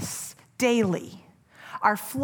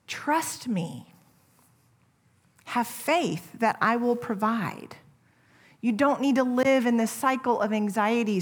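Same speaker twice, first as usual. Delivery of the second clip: gentle, loving. Acted. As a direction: comfort them gently. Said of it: "Lovingly and gently".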